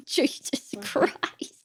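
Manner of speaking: unvoiced slow whisper. Real, not acted. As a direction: breathe it out in disbelief. Disgusted aside after gross story.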